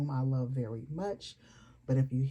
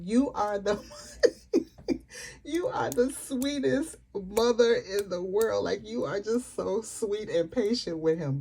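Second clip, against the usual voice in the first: gushing praise; 6 semitones higher, 4 dB louder than usual. Real, not acted.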